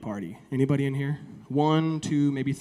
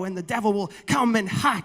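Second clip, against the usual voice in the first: a lightly hammed-up hellfire preacher; mock the sweaty shouting pastor, half-hearted; yelling pastor impression; 3 semitones higher than usual. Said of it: "one of those pastors that yells all the time".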